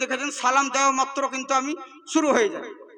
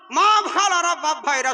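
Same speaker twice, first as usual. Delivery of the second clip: higher, louder call to the crowd, stretched মা; mock jalsa announcement voice; mocking preacher; 3 semitones higher, 4 dB louder, slower than usual. Mocking the preacher reversing his fatwa to the crowd, high call. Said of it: "ই তখন বলছে".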